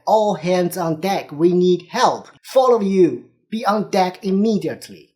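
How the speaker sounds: urgent skipper yelling over the wind; retold skipper's shout. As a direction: call all hands up like a skipper in a storm. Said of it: "The skipper was shouting on the boat".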